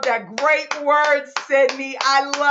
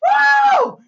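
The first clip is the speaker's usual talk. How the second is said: loud, very high "woo"; celebratory whoop; 6 dB louder than usual. Real, not acted. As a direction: burst into a cheer. Cheering a colleague's success.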